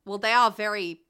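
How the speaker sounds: put-on Australian accent. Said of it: "I've somehow gotten more Australian".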